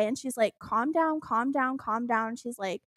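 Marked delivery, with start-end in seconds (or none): 0.6-2.4 soft, falling repeated reassurance, lightly acted; calming dispatcher. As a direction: imitate a dispatcher soothing a caller. Dispatcher calming a panicked caller.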